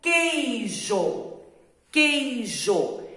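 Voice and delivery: queijo said slowly as kejo, no U sound; careful reading aloud. Shown as a demonstration. Teacher reading a word to pupils, slow and clear. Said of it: "Agora eu vou ler a palavrinha".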